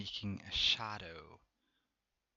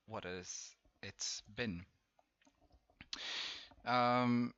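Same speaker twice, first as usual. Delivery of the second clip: munching popcorn. Real, not acted. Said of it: "sorry, I've been eating popcorn".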